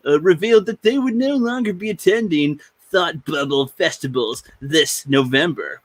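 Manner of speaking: lightly hammed announcer read. Podcast host reading the article aloud, announcer voice. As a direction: read the news item like an announcer. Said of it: "Let's do the announcer voice".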